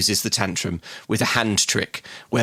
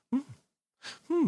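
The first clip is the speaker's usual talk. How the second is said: short noncommittal hmm; appraising hum; 9 dB quieter than usual. Retold or imitated. Customer watched by antique shop owner, appraising hums. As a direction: hum as if browsing under a watchful eye. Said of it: "look at it appraisingly".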